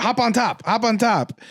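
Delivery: high-pitched mock eagerness; imitating an overkeen wrestler; eager urging. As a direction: urge it twice, pitched well up. Drew urging wrestling on ground.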